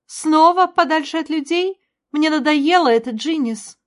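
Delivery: high, loud fed-up cry; angry protest. A narrator's reading. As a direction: vent your frustration. (раздражённо, на высоких тонах)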